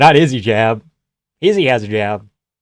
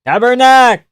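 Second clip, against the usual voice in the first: much higher, loud Quebec French swear; Quebec curse; 10 semitones higher, 7 dB louder, slower than usual. Retold or imitated. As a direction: shout it like an angry Québécois.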